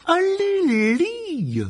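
high, loud vicious command; nasty hiss. Acted. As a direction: spit the order out with venom. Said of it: "d'un ton mauvais".

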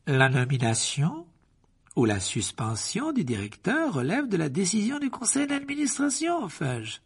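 silky, quietly smug; soft-voiced Malfoy. A narrator's reading. Malfoy corrects Fudge in a soft voice. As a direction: purr the rebuke. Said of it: "d'une voix douce".

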